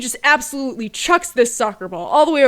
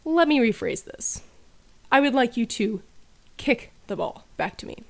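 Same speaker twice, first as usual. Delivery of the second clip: softer, flat restating of the order; patient coach; 6 dB quieter than usual. Retold or imitated. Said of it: "And he goes".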